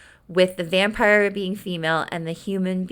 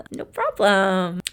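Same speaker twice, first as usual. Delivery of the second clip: sarcastic okay. Retold or imitated. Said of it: "So she's like".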